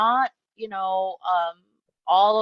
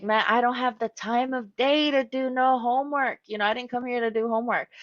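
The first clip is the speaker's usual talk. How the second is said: exasperated client; 3 semitones higher than usual. Retold or imitated. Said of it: "you're like".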